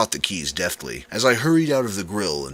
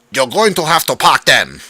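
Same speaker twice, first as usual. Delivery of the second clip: loud, higher call across the kitchen; 8 semitones higher, 12 dB louder than usual. A narrator's reading. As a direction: call it out to the staff. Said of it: "Charles called out".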